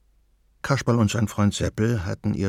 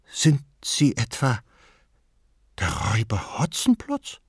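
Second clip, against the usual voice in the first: timid question, Hotzenplotz rising; anxious. A narrator's reading. Frightened grandmother asks if he is the robber Hotzenplotz. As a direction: ask fearfully, Hotzenplotz lifted in a rising question. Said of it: "mit ängstlicher Stimme fragte sie".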